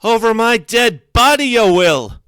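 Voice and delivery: big, high, loud outburst; furious high-pitched shout, full of tears; tearful yell. A narrator's reading. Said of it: "That's Graham yelling, and her voice is big and full of tears".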